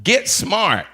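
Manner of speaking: ordinary talk, nothing marked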